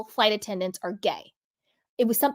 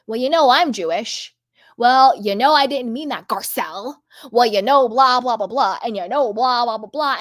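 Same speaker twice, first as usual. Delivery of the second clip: louder mock of a defensive excuse; mocking Dorit; 4 dB louder than usual. Mocking a housemate's defensive excuse to Garcelle, louder parody. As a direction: parody someone brushing off blame with blah blah. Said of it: "she has to be like".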